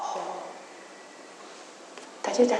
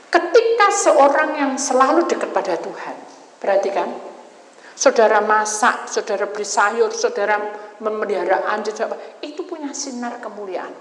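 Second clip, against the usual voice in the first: loud, emphatic preaching to the flock; 3 dB louder than usual. Acted. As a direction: drive each point home to the congregation. Preacher addressing congregation. (khotbah yang lantang dan tegas)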